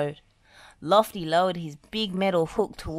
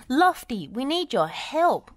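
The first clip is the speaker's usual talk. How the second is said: urgent cry; 8 semitones higher, 5 dB louder than usual. Acted. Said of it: "cried Wendy".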